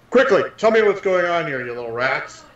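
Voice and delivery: mildly barked in-character order; barked command. Pretend. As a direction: order lowly creatures about, falling away at the end. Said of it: "Gesh again barking out".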